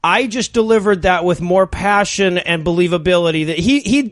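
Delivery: ordinary talk, nothing marked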